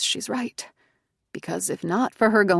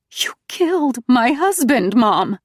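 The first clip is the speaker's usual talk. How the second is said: slow, louder accusation, higher; accusing; 6 semitones higher, 7 dB louder, slower than usual. A narrator's reading. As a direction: lay the charge down slowly. Nina accuses her mother.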